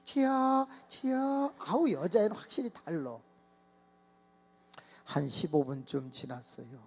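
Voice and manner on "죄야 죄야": put-on girls praying. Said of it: "여자애들은".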